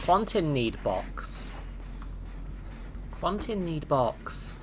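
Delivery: slow, simple-minded character begging; Quentin. Pretend. Streamer as Quentin wanting box, slow and softly pleading. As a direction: plead slowly in clipped baby grammar. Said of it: "But I'm Quentin".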